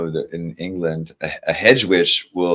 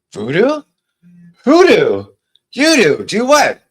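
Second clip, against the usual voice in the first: squeaky goblin chorus, higher; 9 dB louder, slower than usual. Acted. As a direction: chirp each question like a goblin. Goblin lines of song dialogue.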